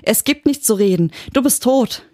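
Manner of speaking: high, frantic shriek. Acted. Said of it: "kreischte sie".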